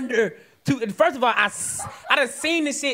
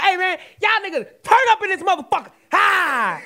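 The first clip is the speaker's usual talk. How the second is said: higher, fast party-hype voice; mock party hype; 5 semitones higher than usual. Blind man cheering the partygoers, fast and high. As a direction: fire up the room, fast. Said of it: "I'm like".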